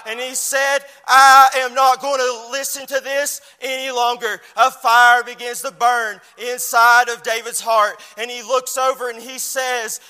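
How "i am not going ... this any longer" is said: loud, determined declaration; loud resolve. Retold or imitated. David refusing to hear God mocked, loud resolve. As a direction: plant your feet and refuse.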